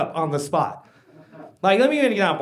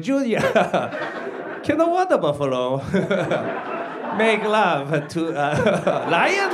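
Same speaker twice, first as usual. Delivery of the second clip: lightly voiced accented dad, broken by laughs; halting mock-dad riddle with chuckles; imagined dad. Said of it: "I just imagine him going".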